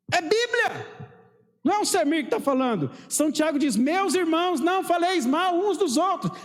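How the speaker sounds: high, insistent scripture proclamation; forceful preaching. Real, not acted. Preacher insisting it is scripture speaking, high and emphatic. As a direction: drive the verse home to the church.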